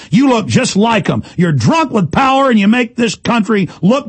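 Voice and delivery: rising, furious rant that breaks into a shout; outraged radio host yelling at the police; angry rant. Real, not acted. Ranting at police as thugs.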